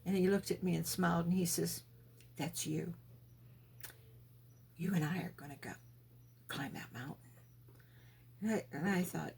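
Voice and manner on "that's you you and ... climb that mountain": hushed, reassuring voice of God; soft and gentle. Retold or imitated. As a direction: lower and much softer, gently. God speaking gently to her.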